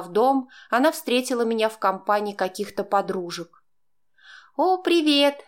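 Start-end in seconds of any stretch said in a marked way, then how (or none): 4.6-5.4 high, bright mock-cheerful hello; cheerful greeting. A narrator's reading. Stepdaughter greets her falsely cheerful. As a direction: sing out hello as if thrilled. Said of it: "весело помахала она".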